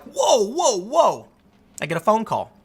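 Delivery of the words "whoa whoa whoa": retold surprise. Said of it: "I'm like".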